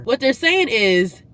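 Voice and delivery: slow and loud, spelling it out; sassy explanation. Real, not acted. Vlogger translating the company email, slow and sassy. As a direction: break it down to viewers with attitude.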